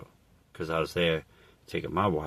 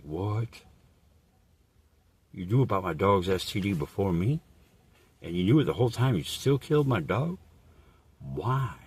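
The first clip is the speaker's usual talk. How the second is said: outraged questioning; 4 semitones higher than usual. Retold or imitated. Retold outrage at the neighbor.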